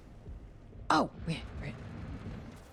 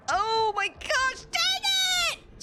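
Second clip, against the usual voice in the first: frustrated outburst. Real, not acted. Gamer losing a boss fight, high frustrated cry. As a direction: blurt it out as the fight goes wrong.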